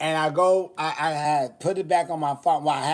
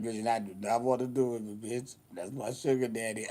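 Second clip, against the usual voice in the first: reluctant quote; 5 semitones lower, 7 dB quieter than usual. Retold or imitated. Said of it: "she was like".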